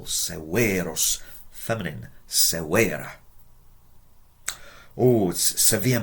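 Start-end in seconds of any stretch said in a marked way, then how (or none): 0.0-1.2 Severos with a long E in the second syllable. Shown as a demonstration. Teacher repeating Severos for learners, long second-syllable E. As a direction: stretch the middle E of Severos slowly. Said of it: "in the second syllable".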